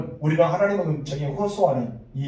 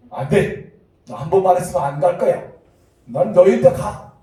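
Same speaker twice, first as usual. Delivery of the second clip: firm refusal; 2 semitones higher, 5 dB louder than usual. Acted. Acted stern refusal by God.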